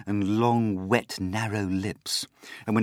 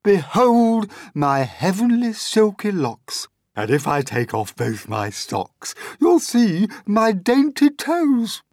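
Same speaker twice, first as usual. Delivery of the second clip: vain Aunt Sponge boasting; 13 semitones higher, 11 dB louder than usual. Acted. Aunt Sponge admiring herself, high and loud. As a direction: show off every word like a vain old aunt.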